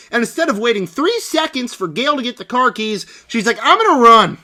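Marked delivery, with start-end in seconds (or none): 3.6-4.4 loud, higher mock declaration; hammed-up determined heroine; mock determined shout. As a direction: announce it like a silly action hero. Sydney dashes off foolishly.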